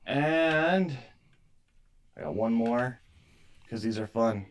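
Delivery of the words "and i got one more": ordinary delivery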